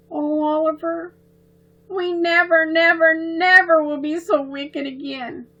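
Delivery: put-on high, earnest child's promise; earnest little girl. A narrator's reading. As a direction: promise it with wide-eyed sincerity. Girls promise Oliver.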